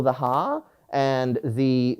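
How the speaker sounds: ordinary talk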